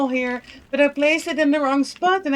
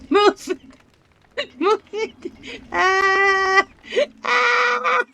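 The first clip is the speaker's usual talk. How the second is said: shrieking jackpot winner; 6 semitones higher, much slower than usual. Real, not acted. Fire spreading, begging to move.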